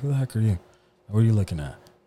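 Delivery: put-on mean, rude, demanding, confrontational tone. Retelling his first words to a friend in middle school: retelling being mean. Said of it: "I was just so mean to him".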